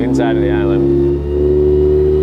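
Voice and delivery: loud slow call over the motor. Real, not acted. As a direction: call it out across the boat. Calling out on boat.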